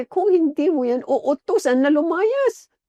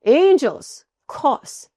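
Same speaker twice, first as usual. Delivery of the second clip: firm command; 3 semitones higher, 3 dB louder, much slower than usual. Shown as a demonstration. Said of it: "Sabi nyo".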